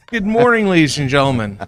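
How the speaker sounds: big welcome, announcer style. Real, not acted. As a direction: open the show like a host. Commentator opens broadcast to audience.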